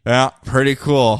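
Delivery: slow, flat-out sarcastic praise; mock-impressed; slow, drawn-out fake compliment; unimpressed. Unimpressed reply.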